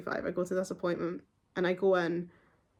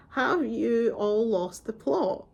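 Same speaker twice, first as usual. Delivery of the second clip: exasperated; 2 semitones higher, much slower than usual. Real, not acted. Exasperated rhetorical question.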